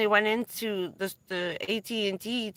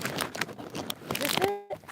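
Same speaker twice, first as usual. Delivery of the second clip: whisper; 10 semitones higher, 7 dB quieter, much slower than usual. Real, not acted. Searching for the muffin, hushed.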